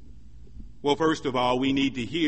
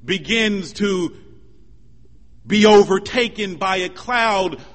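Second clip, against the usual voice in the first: raised, ringing sermon delivery; preaching; 7 semitones higher, 6 dB louder than usual. Real, not acted. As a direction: preach it out with measured emphasis. Preacher's vivid retelling of scripture.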